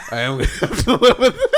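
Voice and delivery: rushed and loud, collapsing into laughter; high, laughing retold line; laughing punchline. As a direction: crack up while quoting the friend. Repeats punchline, cracking up.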